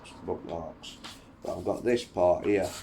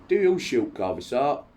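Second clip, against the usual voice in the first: excited; 7 semitones higher, 7 dB louder than usual. Acted. Napoleon's sudden eager question.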